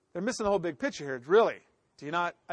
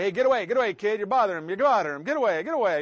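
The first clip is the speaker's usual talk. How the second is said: put-on louder, shooing children off; shooing kids away; 6 dB louder, faster than usual. Disciples scolding children crowding Jesus, loud shooing. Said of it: "The disciples say".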